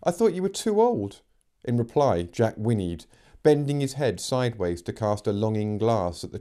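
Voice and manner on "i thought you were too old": put-on higher girl's voice. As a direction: voice young Megan, higher. Megan teasing the horse.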